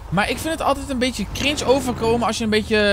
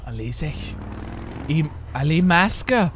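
put-on Flemish accent; 3 semitones lower, slower than usual. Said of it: "Als je dat vergelijkt met Vlaams".

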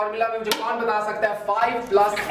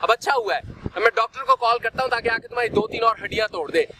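higher-pitched mocking scolding; scolding father; 3 semitones higher, faster than usual. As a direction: rub it in, sarcastic and cross. Indian father scolds injured son.

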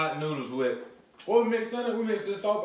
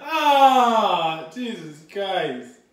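after bitter medicine; 3 semitones higher, 7 dB louder, much slower than usual. Real, not acted. Burning from hot sauce.

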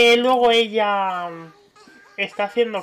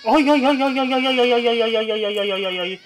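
exasperated ay ay ay; 4 dB louder than usual. Real, not acted. Babies crying all at once.

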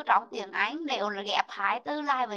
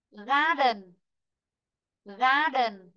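"Garden" with GAR stressed; teacher's model "Garden", falling after the first syllable; much slower than usual. Shown as a demonstration. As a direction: lean on "Gar", drop "den". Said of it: "trong ấm sẽ rơi vị trí thứ nhất".

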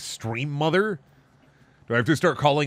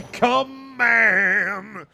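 laughing protest; 8 semitones higher, 4 dB louder than usual. Real, not acted.

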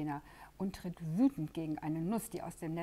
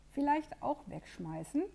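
much higher, timid little question; hesitant rabbit; 9 semitones higher, 6 dB louder than usual. Acted. The rabbit hesitantly suggests throwing it away, timid and high. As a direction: suggest it shyly, unsure. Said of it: "schlägt das Kaninchen zögernd vor".

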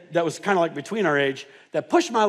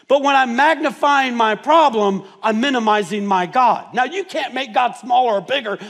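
preaching; 5 semitones higher, 6 dB louder than usual. Acted. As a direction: preach it to the congregation. Preaching climax.

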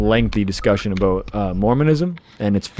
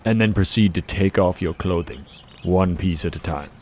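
mock seduction; 3 semitones lower, 4 dB quieter than usual.

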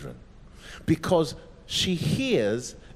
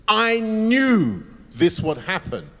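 angry; 4 semitones higher, 4 dB louder than usual. Acted. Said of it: "She's angry".

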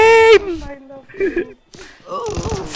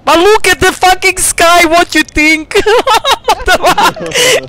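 laughing disbelief; 5 semitones higher than usual. Real, not acted. Laughing at the sky in game.

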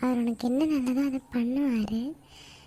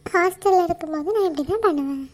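higher, louder justification; loud defence; 4 semitones higher, 5 dB louder than usual. Acted. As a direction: insist over mother. Daughter defends herself loudly. (உரத்த குரலில் சமாதானம்)

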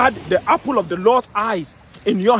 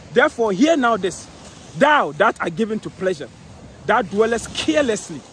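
1 scripture reading. Acted. Reads scripture aloud.

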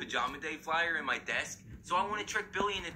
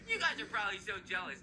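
put-on boastful little-kid voice, sliding higher; gloating kid brother; 9 semitones higher than usual. Kid brother boasts to high schoolers about pajamas, gloating. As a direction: tease the big kids, lightly voiced as a child.

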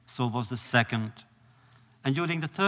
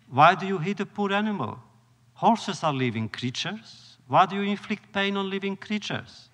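retold rebuke; 6 semitones higher than usual. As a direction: chide him for hurting the horse. Rebbe scolds the coachman.

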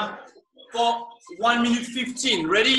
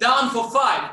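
coach shouting; 6 dB louder, slower than usual. Real, not acted. Coach calling out reps.

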